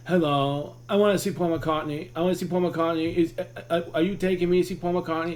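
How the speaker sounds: put-on high, pleading, childlike voice; slow man-child voice. To the security guard, a high childlike plea. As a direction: play the slow adult begging to see the show. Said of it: "did my best Edward Norton from The Score".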